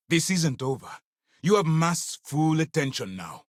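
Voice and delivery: high, tense threat; indignant officer's warning; stern warning. Acted. Commander warns someone.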